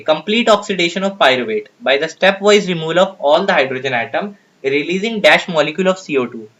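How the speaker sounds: slow, deliberate reading of an exam question. Acted. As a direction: read each word out slowly for the class. Rereads the question slowly.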